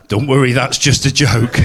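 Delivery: whispered through laughter; laughing. Real, not acted. Comic reassures the crowd while laughing. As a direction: laugh it off under your breath.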